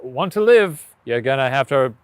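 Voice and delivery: sprite voice. Pretend. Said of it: "your impression of a sprite".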